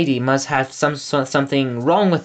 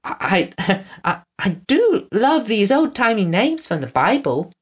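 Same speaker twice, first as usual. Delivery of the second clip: awkward laugh; 8 semitones higher than usual. A narrator's reading.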